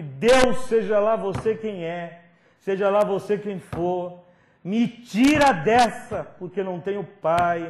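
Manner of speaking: loud, high, slow pleading cry to God; desperate prayer. Retold or imitated. Kneeling boy begs God to save him, loud high cry. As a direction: beg God at the top of your voice.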